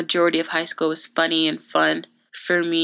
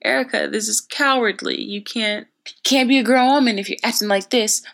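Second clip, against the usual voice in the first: lightly imitated parental scolding, raised pitch; retold parents; 5 semitones higher than usual. Parents telling their daughter it's cowardly, mock scolding. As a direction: lecture like a disappointed parent. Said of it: "my parents were like".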